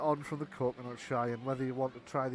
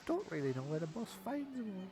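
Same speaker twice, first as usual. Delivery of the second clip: goblin carny voice; 4 semitones higher, 5 dB quieter than usual. Acted.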